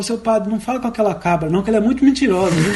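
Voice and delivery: hurried, laughing warning; punchline said through a laugh; boy's warning. Retold or imitated. Boy warning the priest about the goat, laughing. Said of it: "o menino segurou e falou".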